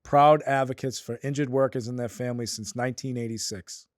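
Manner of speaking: steady sponsor read, slowing on the web address. Acted. Host reads sponsor ad.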